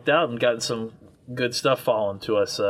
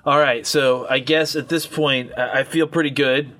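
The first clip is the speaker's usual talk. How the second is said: put-on light Arkansas accent, barely there; a hint of an Arkansas accent. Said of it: "my Arkansas accent".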